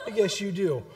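laugh, then talk through it; wheezy mock laughing fit; imitated burst of laughter. Wife cracking up at her son, laughing reply. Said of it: "she just burst out laughing".

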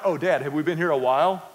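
mild teasing mimicry. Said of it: "they're like".

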